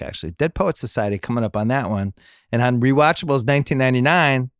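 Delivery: upbeat podcast sponsor read; brisk promo voice. Acted. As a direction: sell it like a host-read ad. Host reads Luminary sponsor ad.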